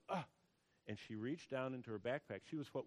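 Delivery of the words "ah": short acted gasp; imitated gasp. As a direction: gasp as if suddenly realizing. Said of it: "that made her go".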